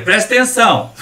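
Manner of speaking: emphatic Mineiro twang; Mineiro accent. Shown as a demonstration. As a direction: lay on the Minas Gerais accent. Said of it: "Fazer bem mineiro".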